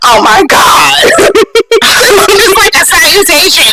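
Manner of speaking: breathy, laughing "oh my God"; cracking up at the hello debate; laughing disbelief. Retold or imitated. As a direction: overcome with laughter. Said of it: "I'm like".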